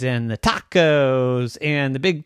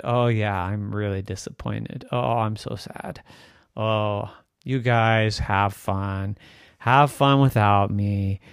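feigned sadness. Pretend.

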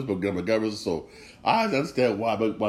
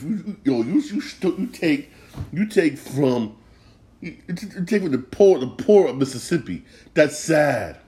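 angry rant; 4 semitones higher than usual. Real, not acted. Vlogger fumes at Brett Favre stealing from the poor, angry rising rant. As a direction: let the outrage climb as you repeat you. Ranting about stolen welfare money.

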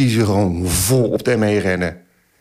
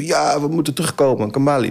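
mild mock shout, raised pitch; higher-pitched call at normal volume; imitated calling out; 4 semitones higher than usual. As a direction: act out someone calling the crowd back. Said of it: "riep zo".

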